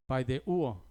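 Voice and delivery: paideuo with a stressed U; accent the U of paideuo. Shown as a demonstration. Preacher showing congregation the accent, paideuo stressed on U. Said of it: "con acento en la U".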